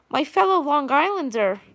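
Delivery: a touch of Long Island accent on the greeting; casual Long Island accent. Real, not acted. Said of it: "I just said it with the accent".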